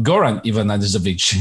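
put-on commentator slipping into a Croatian-style accent; imitated Croatian pronunciation; imitated native accent. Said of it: "the dialect and the tone and the accent of the said country".

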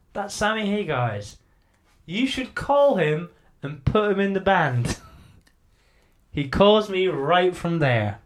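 a hint of a garage owner spelling it out slowly; mechanic Claudio. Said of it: "Claudio goes".

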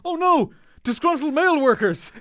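a high, hammed-up wail of alarm; mock panicked cry. Cold open victim spotting the postal workers, a mock high squeal. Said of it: "It's like".

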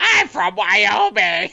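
slow, silly fake Wyoming voice; Wyoming accent. Host repeating the running joke, mock Wyoming accent. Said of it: "That's my good Wyoming accent".

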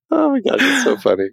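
high-pitched laughing delight. Real, not acted. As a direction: still giggling through the words. Laughing at own impression.

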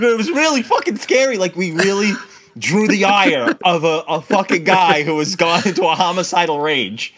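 normal talking voice

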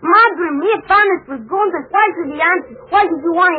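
tearful high voice, breaking into sobs; pushing words out through tears; choked-up boy near sobbing; crying. Acted. Boy breaks down telling story.

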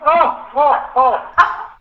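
ordinary talk

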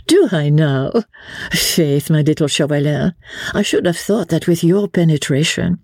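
high, playful society lady; lively lady, teasing. Acted. Marguerite chides her little Chauvelin, high and teasing.

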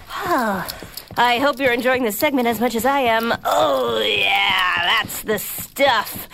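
dreamy, blissful slow drawl; melting with pleasure on the rug; blissed out. Acted. Dog rolling on soft rug.

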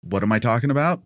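light trailer-announcer read; movie trailer voice. Shown as a demonstration. Co-host reading out film credits in a light trailer voice. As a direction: rattle off the credits like a trailer narrator. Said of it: "bring out my trailer voice".

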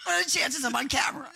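high-pitched amused incredulity; can't-believe-it comic squeal; mock disbelief. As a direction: retell it in a high, astonished voice. Astonished retelling of seeing sign.

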